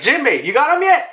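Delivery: high, urgent comrade's call; acted calling out. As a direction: call over to him, mimicking a character. Voices Sanji calling to Jinbei.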